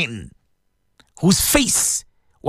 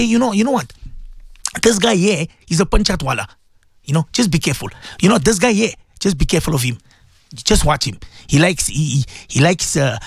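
lowered, confiding gossip; 5 semitones lower than usual. Retold or imitated. A gossip warning a friend about a man, hushed and confiding. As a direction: pass on the rumour as a sly busybody.

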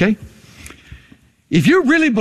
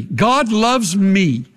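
call to repeat; much slower than usual. Shown as a demonstration. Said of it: "Say it after me".

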